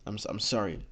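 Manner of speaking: soft, halting reply with a small stutter; hesitate, then trip lightly into the apology; hesitant stutter. Acted. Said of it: "me making for me stuttering".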